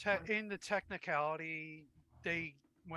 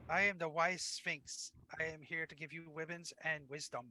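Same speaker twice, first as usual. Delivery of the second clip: Elmer Fudd voice. Pretend. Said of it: "voiced like Elmer Fudd".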